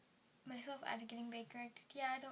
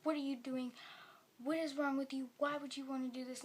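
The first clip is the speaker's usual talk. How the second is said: put-on loud, raised, pleading yell at her child; retold screaming; 3 semitones higher, 6 dB louder than usual. A mother yells at her son after his overdose, loud and upset. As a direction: shout it as a distraught mother. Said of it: "She's screaming at me".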